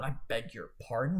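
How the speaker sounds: "I beg your pardon" said as a mild, uppity rebuke; offended tone. Shown as a demonstration. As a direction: read "I beg your pardon" as if lightly insulted. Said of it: "in an offended tone".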